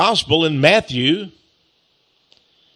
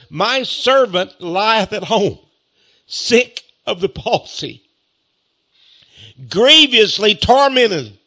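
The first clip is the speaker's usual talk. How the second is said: beseeching; 5 semitones higher, slower than usual. Acted. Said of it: "He was begging him".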